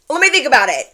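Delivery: casual mock pretence of thinking it over; acting aloof to the bar owner; feigned indifference. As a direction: pretend to be too busy to care. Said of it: "trying to pretend like I'm not".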